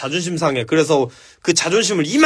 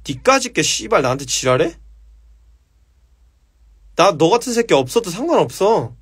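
cold hard demo. Shown as a demonstration. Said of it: "이게 정색이에요".

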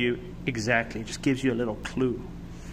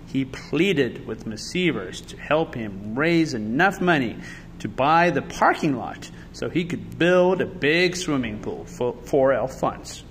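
put-on measured storytelling to children; picture-book narrator; story narration. A narrator's reading. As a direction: read the story aloud with expressive emphasis.

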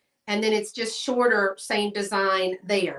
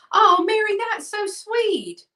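touched; 11 semitones higher, 4 dB louder than usual. Real, not acted. Seller moved by Mary's story about her babies, tender and high. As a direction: melt at a sweet comment. Touched by viewer's nursery memory.

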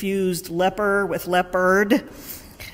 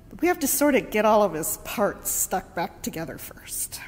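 calm and quiet; 2 semitones higher than usual. Retold or imitated. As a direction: keep calm while shaken. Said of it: "Very calmly and quietly he said".

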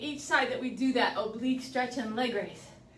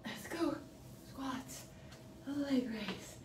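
ordinary delivery

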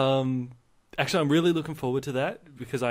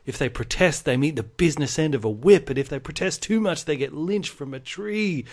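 solemn, slowing history teacher; 2 semitones higher than usual. Retold or imitated. History teacher telling kids of the convicts' suffering, grave and dramatic. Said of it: "he's like".

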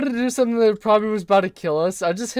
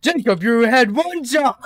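raised-pitch, exasperated mock scolding; 4 semitones higher than usual. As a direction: scold your friend in playful exasperation. Mock scolding an absent friend.

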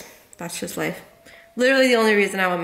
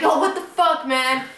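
mock indignant protest, pitched up; retold annoyed outburst; pissed off; 3 semitones higher than usual. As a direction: imitate an angry friend complaining. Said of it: "I got pissed".

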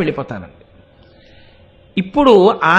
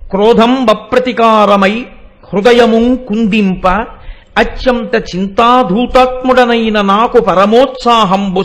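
measured, declaiming the padyam; verse recitation. Acted. Preacher reciting Bhima's verse, measured and declaiming. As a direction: intone the old verse line by line.

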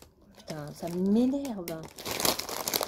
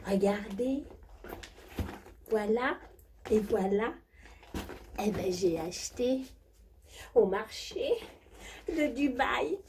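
high, breathy posh diva voice; hammed-up high society diva; rich diva character; 5 semitones higher, 5 dB quieter, slower than usual. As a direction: play a spoiled jet-set lady bragging. Same diva character continues.

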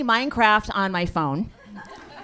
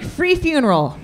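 loud, pitched-up sideshow barker pitch; carnival barker; 6 semitones higher, 8 dB louder, much slower than usual. Retold or imitated. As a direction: hawk a free funeral to the street. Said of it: "bark mourners in".

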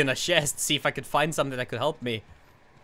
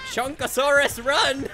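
urgent call; 9 semitones higher, 5 dB louder, slower than usual. Real, not acted. Urging teammate to flee.

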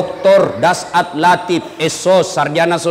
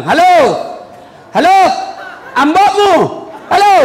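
phone hollering; 9 semitones higher than usual. Acted. Villager calling his child from a phone booth, hollering. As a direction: bellow hello into a dead line.

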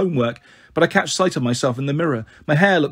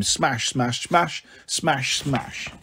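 fading to a whisper; 6 dB quieter, much slower than usual. A narrator's reading. Imagining Humpty Dumptys smashing.

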